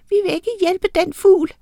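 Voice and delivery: lys, sur miniheksestemme; sur lille heks. A narrator's reading. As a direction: sig det surt og pibende. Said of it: "sagde en af dem surt". (afvisende bitte heks i højt toneleje)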